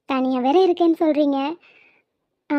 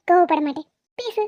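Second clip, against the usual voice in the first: "கோவப்பட மாட்டேன்" with a forced, smiling tone; said with a smile. Acted. Wife told to smile, says it with a forced grin. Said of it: "சிரிச்சுக்கிட்டே சொல்லு".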